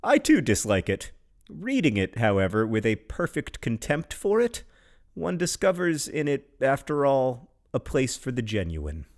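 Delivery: measured recital of a short poem; lightly performed verse; poetry reading. Acted. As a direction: read it with dry poise. Reads a poem aloud.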